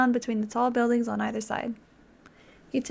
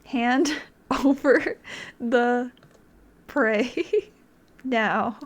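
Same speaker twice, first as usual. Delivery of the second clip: giggling through a mock threat; laughing menace; much slower than usual. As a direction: play the demand but crack up. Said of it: "Last chance".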